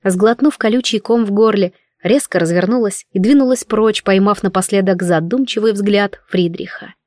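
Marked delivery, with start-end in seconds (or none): none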